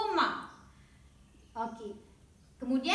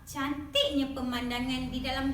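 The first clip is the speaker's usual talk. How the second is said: amazed wah. Shown as a demonstration. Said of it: "Tengok contoh wah".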